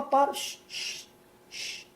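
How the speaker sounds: breathy whispered hush fading away; hushing shh. Retold or imitated. Husband hushing his panicked wife, soft whisper. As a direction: soothe her into silence. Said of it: "eu falo".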